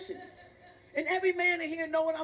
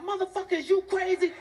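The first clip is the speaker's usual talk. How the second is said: hollering out; 5 semitones higher, 4 dB louder than usual. Retold or imitated. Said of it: "get ready to holler out".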